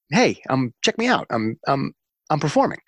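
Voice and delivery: lightly acted, hesitant little pipe-up; tentative attention-seeking. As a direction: imitate someone timidly raising a hand, pitch lifting. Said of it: "It just raised its hand".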